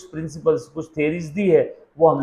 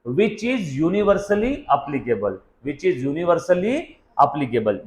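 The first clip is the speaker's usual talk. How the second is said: words spaced out very slowly for note-taking; teacher dictating a definition, very slow; slow dictation; much slower than usual. Shown as a demonstration. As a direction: dictate it slowly so they can write. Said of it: "लिखना है तो लिख सकते हैं".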